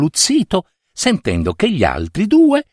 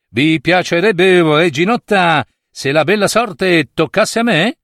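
lightly voiced suitor, higher and hopeful; a hint of a courting suitor; suitor's question; 5 semitones higher than usual. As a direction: put a courtly question to the princess.

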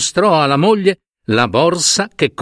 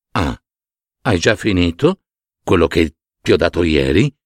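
questioning python; 6 semitones lower than usual. Acted. Python questions the man about yesterday's money, low voice. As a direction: ask it low and measured.

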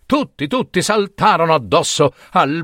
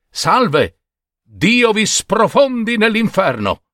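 Babino's innocent greeting, pitched high; naive cheerful greeting; 10 semitones higher, slower than usual. Acted. Babino greets the threshing brothers, cheerful and high. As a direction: cheerfully say the wrong blessing.

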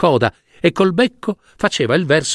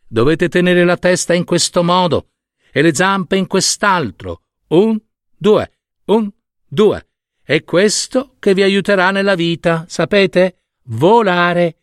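a lightly raised, lively mother stork voice counting the beats; mother stork teaching; 5 semitones higher than usual. Acted. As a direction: coach the chicks with bright, rhythmic counting.

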